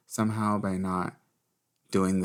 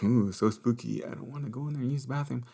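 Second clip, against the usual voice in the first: silly spooked; 4 semitones higher than usual. Retold or imitated. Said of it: "I was being stupid".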